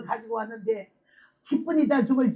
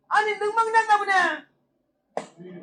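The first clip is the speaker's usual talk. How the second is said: slow, high, wondering; astonished slow exclamation; amazed; 9 semitones higher, much slower than usual. Retold or imitated. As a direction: marvel aloud, stretched out. Amazed she can breathe.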